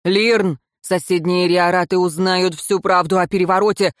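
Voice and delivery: plain reading voice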